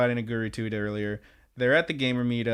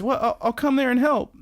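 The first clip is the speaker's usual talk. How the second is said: much higher, hammed-up eager boyfriend; mock eager boyfriend; 11 semitones higher than usual. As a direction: offer help like a cartoon hero. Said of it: "And Amado says".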